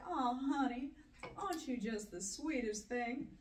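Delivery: a light Texan Southern drawl; sweet Southern lady voice, Texas accent. Retold or imitated. Woman mocks a Texan answer in Southern accent. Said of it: "who you just sounded like".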